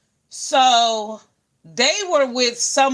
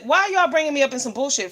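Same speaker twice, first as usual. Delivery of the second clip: indignant; 6 semitones higher, 3 dB louder, faster than usual. Retold or imitated. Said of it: "I said".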